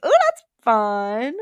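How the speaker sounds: loud, slow mock-Australian exclamation; playful hammed-up Australian accent; mimicked Australian accent. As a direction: imitate an Australian accent, stretching it out. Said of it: "speaking in an Australian accent".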